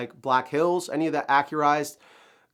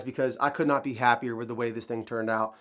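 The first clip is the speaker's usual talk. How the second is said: nasal, stuffy sick voice; nasally voice. Real, not acted. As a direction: nasally voice from a cold. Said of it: "Sorry for the nasally voice".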